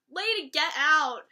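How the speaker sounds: loud, fed-up get out; annoyed shout. Real, not acted. Vlogger scolding Toni for interrupting, loud. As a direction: shoo her off, exasperated.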